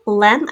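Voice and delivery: "Lem" as its own syllable, unreduced short E; sounded-out syllable. Shown as a demonstration. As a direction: say "Lem" with a clear short E, as in "hem". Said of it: "I hear the short E".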